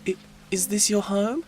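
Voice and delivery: high breathless wonder; high girly voice. Acted. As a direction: ask it high and starry-eyed. Joey voiced in story.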